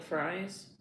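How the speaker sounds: ordinary delivery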